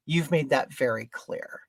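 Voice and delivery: low, soft and controlled; restrained retort. Retold or imitated. Customer rebukes the market man, quietly restrained. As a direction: keep the rebuke down. Retold retort, first softer take.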